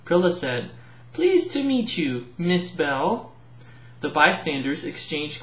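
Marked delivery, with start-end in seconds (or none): 1.1-3.3 curtsy with the voice, very polite; Prilla's polite greeting. Acted.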